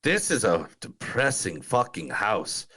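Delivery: a light Irish lilt on the film quote; Irish accent. Retold or imitated. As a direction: read the line like an Irish villager. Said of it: "Thank you for the Irish accent".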